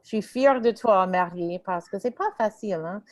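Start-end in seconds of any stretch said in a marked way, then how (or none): none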